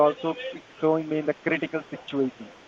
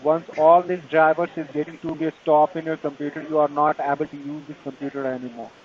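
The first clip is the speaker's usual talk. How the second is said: Indian call center. Real, not acted. Tech support scam call agent.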